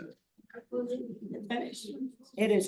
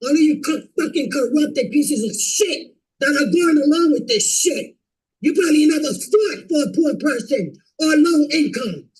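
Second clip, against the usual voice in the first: louder, furious accusations at the board; real furious yelling; 4 dB louder than usual. Real, not acted. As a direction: shout them down as corrupt. Resident yelling at board members.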